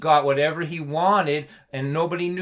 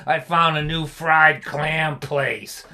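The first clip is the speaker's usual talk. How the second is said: imitating dad; 4 dB louder, slower than usual. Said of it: "that's the way he talked".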